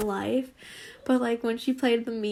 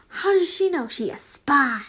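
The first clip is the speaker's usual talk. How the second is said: mock suspicion; 2 semitones higher, 5 dB louder than usual. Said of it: "I was just like".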